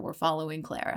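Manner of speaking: ordinary talk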